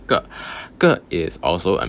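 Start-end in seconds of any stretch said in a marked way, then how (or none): 0.1-0.3 个 with a short falling tone; fourth tone. Shown as a demonstration. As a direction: drop the pitch on 个. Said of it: "fourth tone".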